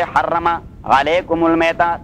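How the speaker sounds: slow, drawn-out chanted recitation; slow Quran recitation. Shown as a demonstration. Teacher reciting the verse to his students, slow chanted recitation. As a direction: intone the verse slowly, stretching each word.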